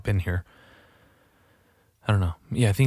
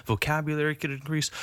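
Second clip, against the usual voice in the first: higher, lightly voiced prissy critic; slightly put-on higher scolding voice; self-aware critic; 6 semitones higher than usual. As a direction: imitate someone correcting your language. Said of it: "to the point where I'm like".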